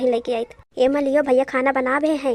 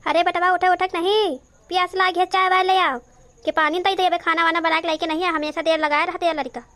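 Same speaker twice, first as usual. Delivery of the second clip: higher-pitched motherly scolding; raised, complaining wake-up nag; nagging wake-up call; 3 semitones higher than usual. Acted. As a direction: call him out of bed, impatiently. Mother calls son to wake up.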